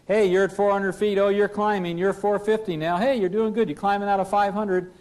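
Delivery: coaching copilot calling out altitude; copilot callout. Acted. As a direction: cheer the pilot on as the climb holds. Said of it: "the pilot not flying is saying".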